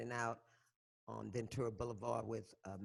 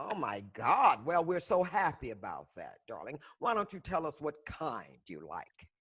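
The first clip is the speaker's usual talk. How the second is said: sarcastic; 5 dB louder than usual. Acted. Sarcastic reply to Kavanaugh.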